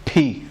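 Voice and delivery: پھی with a breathy puff at the start; aspirated demo. Shown as a demonstration. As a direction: let air burst on پھی. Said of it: "اس کی pronunciation".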